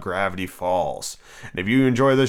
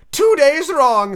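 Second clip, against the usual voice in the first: sighing; 13 semitones higher, 6 dB louder, much slower than usual. A narrator's reading. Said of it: "sighed the Hatter".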